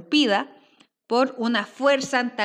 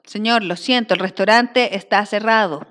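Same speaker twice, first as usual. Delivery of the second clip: waiter line; 7 dB louder than usual. Acted. Teacher voices waiter in script.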